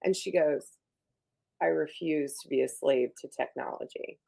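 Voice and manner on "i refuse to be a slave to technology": calm, unemotional deadpan refusal; Wednesday Addams. Acted. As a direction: imitate a deadpan girl, voice slightly lowered. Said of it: "So it's like that".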